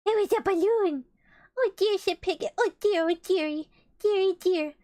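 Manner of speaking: high, loud fretting cries; distressed wail. Acted. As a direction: Piglet despairing over his popped balloon. Piglet laments popped balloon.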